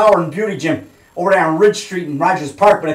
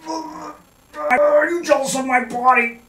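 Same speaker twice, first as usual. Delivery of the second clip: teasing; 9 semitones higher, 4 dB quieter, much slower than usual. Real, not acted. Teasing viewers while flexing.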